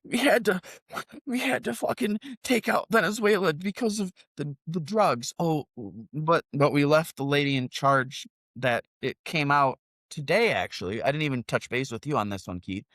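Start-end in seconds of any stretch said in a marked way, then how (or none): 0.0-11.0 mocking supporters. Host imitating viewers' comments, high mocking voice. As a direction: parrot the excuses in a dopey high voice. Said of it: "people going".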